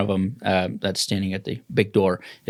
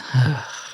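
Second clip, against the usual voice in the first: weary sigh; 3 semitones higher than usual. Acted. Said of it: "She sighs".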